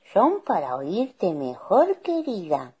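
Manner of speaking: lightly put-on granny, drawn out; wolf posing as granny. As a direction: answer with sly sweetness. Wolf answers as fake granny.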